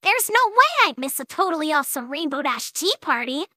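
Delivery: put-on high, eager young pony voice; enthusiastic. A narrator's reading. Young fan invited to join her hero, enthusiastic. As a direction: accept eagerly in a high child's voice. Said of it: "Scootaloo nodded enthusiastically".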